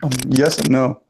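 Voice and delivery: losing voice, rough and strained; hoarse voice. Real, not acted. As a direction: speak through a worn-out, hoarse throat. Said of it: "I'm losing my voice".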